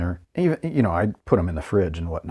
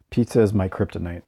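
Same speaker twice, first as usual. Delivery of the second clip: sniffling; 3 semitones lower, 4 dB quieter, faster than usual. Real, not acted. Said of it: "Sorry about the sniffling".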